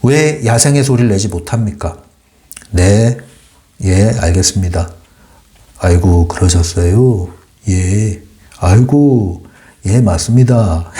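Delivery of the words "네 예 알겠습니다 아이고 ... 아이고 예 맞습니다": lightly imitated deferential office intonation; slow, drawn-out courteous replies, lightly mimicked; polite working-adult voice. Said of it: "나이대에 따른 목소리가 있고".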